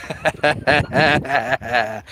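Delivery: soft, low laugh at his own joke; low chuckle. Real, not acted. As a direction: chuckle quietly after the bit. Laughing after mock rant.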